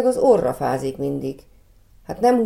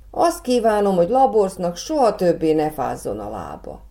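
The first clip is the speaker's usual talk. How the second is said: starts high on Azt, then blurts the wish; boy eagerly exclaiming his wish to the fairy; eager exclamation; 3 semitones higher than usual. Acted. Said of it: "kiáltott fel".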